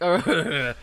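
slow, put-on movie villain voice; Bane. Host joking about fried chicken, slow mock villain impression. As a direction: drag it out like a masked Batman villain, half laughing. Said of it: "Bane, like the villain from Batman".

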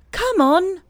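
high, loud leader's call; shout. A narrator's reading. Christopher Robin calls from the top of the line, high shout. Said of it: "There was a shout".

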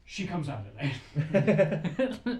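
very slow, loud, laughing spooky line; hammed-up creepy warning, laughing; spooky laughing delivery. Quoting homeless man dramatically.

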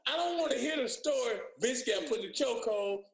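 high-pitched talk through real laughter; laughing protest. Real, not acted. Player jokes about the naked chokehold story, laughing protest. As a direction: crack up while objecting.

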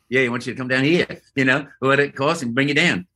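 quick, badly faked Australian accent; breezy put-on Aussie accent. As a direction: rattle it off in mock Australian. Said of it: "That's my worst Australian".

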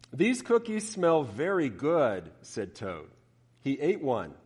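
lively storybook reading; story narration. A narrator's reading. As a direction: read it like to children. Preacher reads Frog and Toad story.

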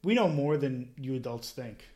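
daughter's call-out, lightly imitated; retold yell. Oldest daughter from the background, mild retold yell. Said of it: "she yells out".

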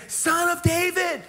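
high, slow, pleading cry. Acted. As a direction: beg from the roadside, top of your lungs. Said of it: "he begins to scream out".

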